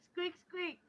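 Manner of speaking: high little squeaks; squeaky mouse voice. Acted. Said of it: "Look over at Cinder and I'm like".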